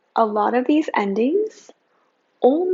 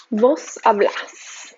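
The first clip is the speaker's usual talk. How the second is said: slow model; much slower than usual. Shown as a demonstration. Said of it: "slow model then repeat".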